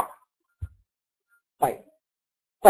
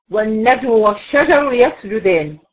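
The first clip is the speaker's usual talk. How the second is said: slow recitation; slower than usual. Shown as a demonstration. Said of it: "teacher recites Quran example slowly".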